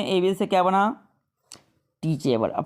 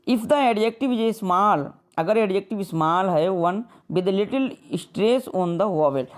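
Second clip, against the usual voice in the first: slow, deliberate reading of a textbook rule; slow rule dictation; slower than usual. Shown as a demonstration. Teacher reading a grammar rule to students, slow and deliberate. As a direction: spell the rule out slowly for the class. Reads English rule aloud slowly.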